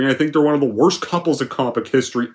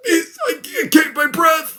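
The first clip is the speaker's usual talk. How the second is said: much higher, fake-weepy, straining; mock dying voice. Raven dying in Beast's arms, mock weepy gasp. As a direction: parody a bad death scene.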